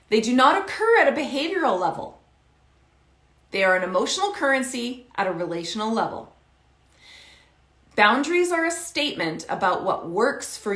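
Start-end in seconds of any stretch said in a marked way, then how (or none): 3.5-6.4 "emotional" stressed, said quickly with a falling end; brisk repeat. Shown as a demonstration. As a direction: rattle off the line fast, falling on "level". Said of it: "I'm gonna say this again".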